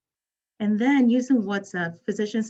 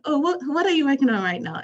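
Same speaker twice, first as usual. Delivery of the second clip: put-on retry the Ghanaian accent, higher and louder; higher, louder Ghanaian accent on the second try; 7 semitones higher, 5 dB louder than usual. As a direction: ask a friend in a fuller Ghanaian accent what they're working on. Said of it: "I'm going to use my Ghanaian accent here".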